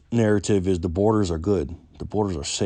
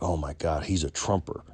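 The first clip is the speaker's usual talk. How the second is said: hushed aside, lightly imitated; retold whisper; 2 semitones lower, 5 dB quieter than usual. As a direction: confide it under your breath, half whispered. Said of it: "she whispered that to me".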